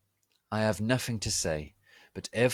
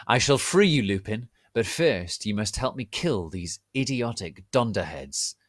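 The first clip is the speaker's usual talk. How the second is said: cruel sneer; 2 semitones higher, 4 dB louder than usual. Acted. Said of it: "he said cruelly".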